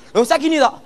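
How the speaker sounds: usual speaking voice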